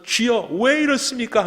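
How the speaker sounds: high anguished cry to the Lord; wailing plea. Retold or imitated. Wailing prayer retold. (통곡하며 높게 부르짖듯)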